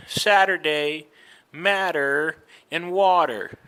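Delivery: Saturday, matter, water with T tapped like an R; flapped T. Shown as a demonstration. Teacher repeating for learners, flapped T in Saturday, matter, water. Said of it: "sounds a little bit like an R".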